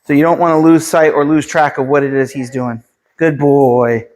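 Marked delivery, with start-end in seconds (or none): 3.2-4.1 praise voice. Shown as a demonstration. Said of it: "See how I use my praise there".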